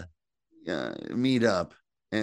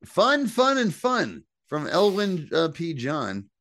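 announcer voice; 8 semitones higher, 4 dB louder, slower than usual. Acted. Reading review title in announcer tone.

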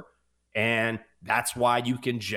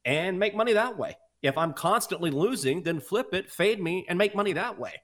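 retort; 5 semitones higher than usual. Retold or imitated. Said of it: "I'm like".

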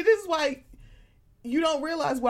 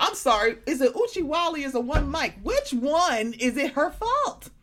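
exasperated sarcasm; 3 semitones higher than usual. Retold or imitated. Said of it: "It was like".

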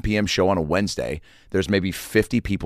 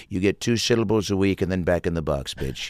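Trump impression; 2 semitones lower, 5 dB quieter than usual. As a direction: sneer it under your breath. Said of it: "Trump was for sure in the wings".

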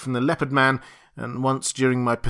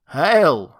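beast man greeting; 4 semitones higher, 7 dB louder than usual. Acted. Satyr and ape-man greeting.

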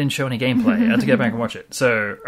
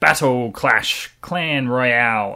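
trailer announcer voice; much slower than usual. Acted. Mocking generic game titles.

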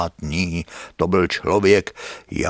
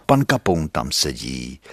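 ordinary delivery

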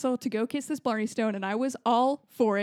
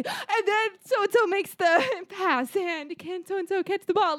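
higher, slow, dramatic play-by-play; intense sports commentator; 8 semitones higher, slower than usual. Shown as a demonstration. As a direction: hype up the rally like a commentator. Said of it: "shouldn't you be, like, more intense about it".

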